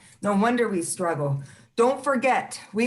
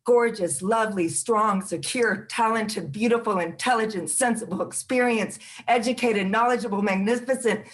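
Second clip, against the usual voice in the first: tender affirmation. Real, not acted. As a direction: lift them up gently, word by word. Affirming list to women viewers.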